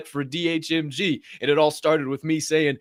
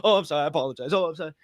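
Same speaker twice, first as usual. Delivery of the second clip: mock apologetic; much faster than usual. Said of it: "Take it out of your rhetoric".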